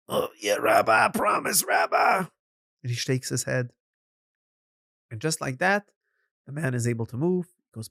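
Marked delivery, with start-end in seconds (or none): 0.1-2.2 a touch of a cry, eager to agree; desperate promise. Acted. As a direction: blurt the promise out of fear. Frozen landowner promises eagerly.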